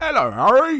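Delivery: friendly, kindly big giant voice. Welcoming new patrons and trying out a line: Hagrid voice. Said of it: "'cause I'm standing here like Hagrid".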